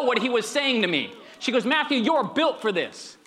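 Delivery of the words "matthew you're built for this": mock-intense "Matthew, you're built for this."; intense wife. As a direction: fire it at him with conviction. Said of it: "The intensity".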